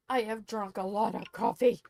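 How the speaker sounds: wired on coffee; too much caffeine. Real, not acted. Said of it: "I am very hyper on coffee".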